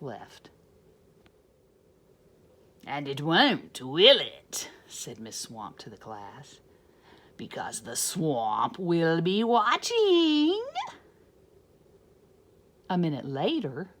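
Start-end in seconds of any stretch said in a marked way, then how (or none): 2.8-10.6 louder, slow menacing witch. Acted. Swamp warning the class, slow and louder.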